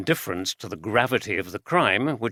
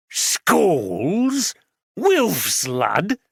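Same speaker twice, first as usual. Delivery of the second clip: higher, louder broad Yorkshire voice; an old Yorkshireman barges in, broad Yorkshire accent; 7 semitones higher, 4 dB louder, much slower than usual. A narrator's reading. Voiced character Duffield.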